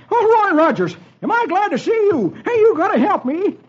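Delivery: put-on high, panicky old-timer voice; high-pitched scared sidekick; jittery old-timer. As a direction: play a frightened old prospector.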